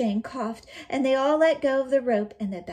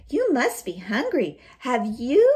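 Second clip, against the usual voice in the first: put-on girl voice; 3 semitones higher, 6 dB louder than usual. Shang voiced to the wolf.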